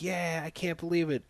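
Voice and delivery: half-hearted imitation of a thrilled crowd; mock crowd cheer. Everybody's reaction to the goal, half-hearted mock cheering.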